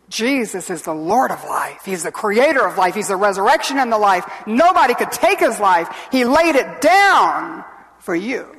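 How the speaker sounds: building sermon proclamation; emphatic preaching. Real, not acted. Preacher proclaims Jesus laid down his life, emphatic. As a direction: swell in force towards the final phrase.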